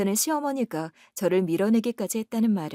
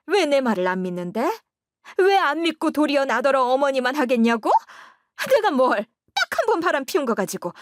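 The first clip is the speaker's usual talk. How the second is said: louder, scornful warning from the mother; spiteful mother-in-law; 2 semitones higher, 4 dB louder than usual. Acted. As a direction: sneer at the wife, warn the son. Mother-in-law rounds on her son. (비꼬는 시어머니 말투)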